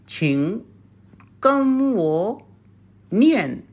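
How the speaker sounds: 请, 跟我, 念 said in separate chunks; split into parts. Shown as a demonstration. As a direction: break 请跟我念 into pieces to show it. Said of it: "say in this way".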